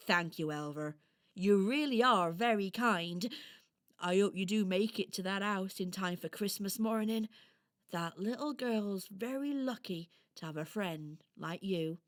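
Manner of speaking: grateful storybook hedgehog; kindly hedgehog character. Acted. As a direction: thank a small friend as a kindly hedgehog. Voices Harris the hedgehog.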